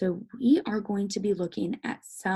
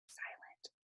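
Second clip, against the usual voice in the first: silent; 24 dB quieter than usual. Shown as a demonstration. Acts out the silent vowel.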